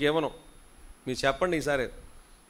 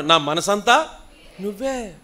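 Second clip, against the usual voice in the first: louder నా మనసంతా with a rise on మనసంతా; 5 semitones higher, 7 dB louder, much slower than usual. Shown as a demonstration. Congregation prompted to answer, louder. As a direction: say it with conviction. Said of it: "చెప్పండి".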